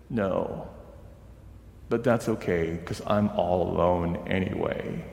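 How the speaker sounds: soft, tearful little voice; a hushed, lonely boy's reply. Retold or imitated. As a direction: say it quietly, on the edge of tears. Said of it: "And these tears".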